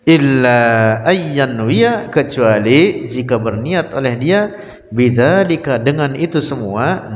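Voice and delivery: slow, drawn-out reading with word-by-word translation; kitab recitation. Acted. Teacher reading the kitab aloud to his students, measured recitation. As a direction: lean on each phrase, stretching its end.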